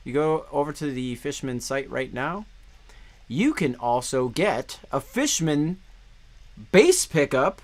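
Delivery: smooth sales pitch, slowing down; salesman voice. Pretend. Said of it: "That's my, like, salesman voice".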